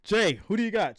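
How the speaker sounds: loud, high nagging fan voice; hammed-up pestering viewer; mocking viewer. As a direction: parrot the chat's question. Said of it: "I say it so many times".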